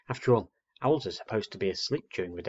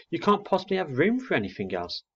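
amazed mother; 8 semitones higher than usual. Acted. Mother amazed at owlet's appetite.

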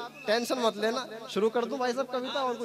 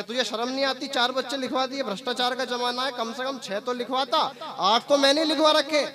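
mock scolding. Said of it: "boss ने उसको डांटा".

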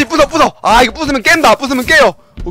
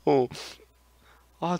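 usual speaking voice

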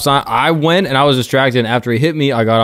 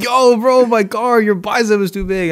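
higher, mock Mexican accent for the car owner; 8 semitones higher than usual. Retelling the crash, mimicking the driver in a mock Mexican accent. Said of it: "he was like".

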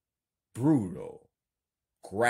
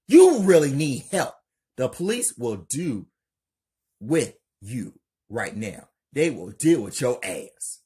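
yelling; 5 semitones higher, 11 dB louder than usual. Acted. Kelly warning Lena about the police, loud high yell. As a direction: yell at her, then keep pressing. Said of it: "Kelly yells".

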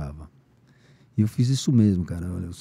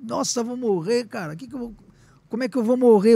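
panicked; 10 semitones higher than usual. Retold or imitated. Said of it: "Eu falei".

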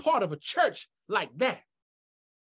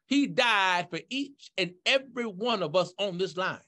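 fervent preaching. Real, not acted. Preacher invites everyone at the altar call, fervent preaching. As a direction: preach it out, pitch climbing through the list.

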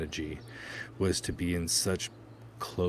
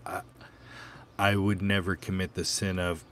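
stammering; 3 dB louder than usual. Acted. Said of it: "the man stammered".

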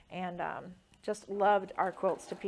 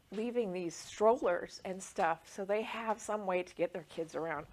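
tearful. Real, not acted. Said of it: "I'm gonna start crying".

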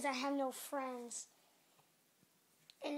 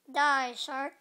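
command; 8 dB louder than usual. Pretend. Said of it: "I said die".

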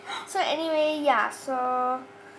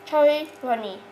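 cheeks stuffed full; 2 semitones higher, 5 dB louder than usual. Real, not acted. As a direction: mouth full of marshmallows. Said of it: "I'm gonna do the Chubby Bunny Challenge".

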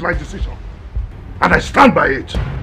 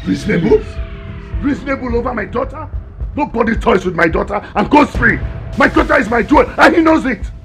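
outraged father. Acted. Chief outraged over his daughter.

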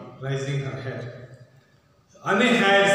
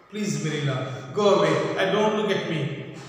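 a lightly voiced begging plea, rising louder; pleading; 4 dB louder than usual. Anne pleading with Marilla to leave her. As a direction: beg Marilla to go away. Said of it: "She's pleading".

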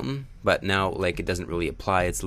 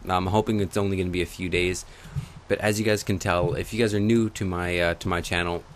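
swollen lips. Real, not acted. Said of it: "I usually don't sound like this".

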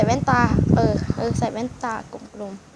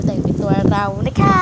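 lightly silly voice, louder toward the end; silly put-on voice; 3 semitones lower, 4 dB louder than usual. Vlogger correcting herself to viewers, in a lightly silly voice. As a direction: play up the final polite word a little. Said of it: "ทำเสียงอย่างนี้เพื่ออะไรคะ".

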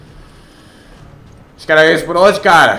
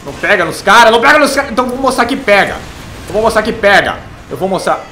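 mocking taunt; 7 semitones higher, 3 dB louder than usual. Real, not acted. Gamer taunting enemies, high voice.

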